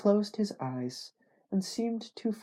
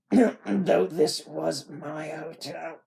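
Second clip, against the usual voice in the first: slow, louder slurred Southern voice; slurred speech; 2 semitones higher, 6 dB louder, much slower than usual. Acted. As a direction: drag the words out, slurring heavily. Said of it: "The speech was slurred".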